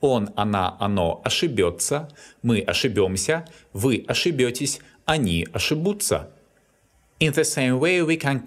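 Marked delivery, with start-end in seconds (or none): 0.0-6.3 ошибётся, ошибёмся, ошибётесь stressed on бё, ошибутся on бу; quick drill, hitting the ending in ошибётся, ошибёмся, ошибётесь, ошибутся. Shown as a demonstration. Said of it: "all its forms are stressed on the ending".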